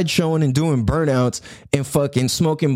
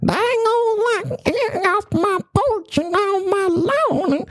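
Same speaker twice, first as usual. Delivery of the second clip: put-on very high, slow cranky old-man yell; hammed-up high geezer chasing kids off the lawn; grumpy old man; slower than usual. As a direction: squawk like a grumpy old man off his porch. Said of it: "American culture".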